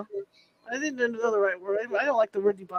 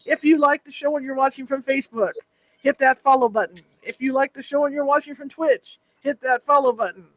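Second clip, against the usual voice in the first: louder booming announcer read; 2 semitones higher, 5 dB louder than usual. Acted. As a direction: pitch it like a show announcer. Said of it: "it's my, my announcer voice".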